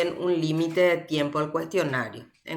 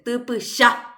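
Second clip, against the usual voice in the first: tupusha with the last syllable punched; stress on final A; 3 semitones higher, 3 dB louder than usual. Shown as a demonstration. Teacher quizzing students on the tonic vowel, stress on the end of tupusha. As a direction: hit the final "sha" in tupusha. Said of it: "Cuál es la vocal tónica en tupusha".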